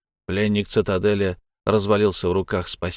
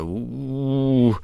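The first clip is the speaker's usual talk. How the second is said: imitated moan; 4 semitones higher than usual. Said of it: "попытался он передать слабый стон".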